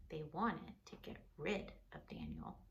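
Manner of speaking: hushed storyteller whisper about the plotters. A narrator's reading. Parent whispering the villains' plan to a child. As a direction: breathe it like a secret. Narrator hushing over the plot.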